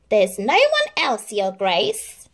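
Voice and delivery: lie smoothly to the duke; lying stepmother. Acted. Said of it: "lied the stepmother".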